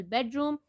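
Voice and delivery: "Bedroom" stressed on BED; careful teacher's "Bedroom", weight on BED; first-syllable stress. Shown as a demonstration. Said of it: "first syllable".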